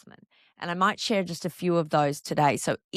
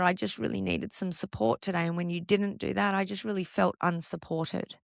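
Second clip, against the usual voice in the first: gentle startup. Shown as a demonstration. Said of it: "And we gently might say something like".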